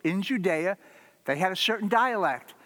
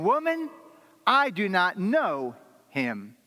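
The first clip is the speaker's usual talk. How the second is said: Peter's denial; 2 semitones higher, slower than usual. Acted.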